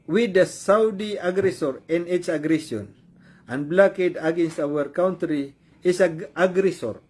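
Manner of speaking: slow, halting read-out in English; deliberate, stumbling English reading; reading aloud. Real, not acted. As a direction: read the statement out word by word. Reads the statement out again.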